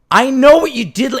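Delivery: ominous note read out loud and high; threatening. Acted. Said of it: "it sounds threatening".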